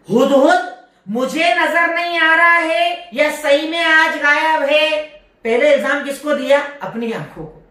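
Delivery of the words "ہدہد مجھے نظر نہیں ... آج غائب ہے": higher, half-sung lament of a puzzled king; a lightly sung, higher wondering voice; Solomon wondering aloud. Acted. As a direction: chant it like a king puzzled by an empty spot. Solomon voiced asking about hoopoe.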